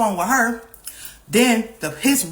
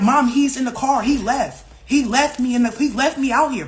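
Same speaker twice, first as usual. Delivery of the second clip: higher-pitched, exasperated retold complaint; insistent protest; 5 semitones higher, 3 dB louder than usual. Daughter telling mom she was left behind, exasperated protest. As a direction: press the point on mom. Pleading her case to mom.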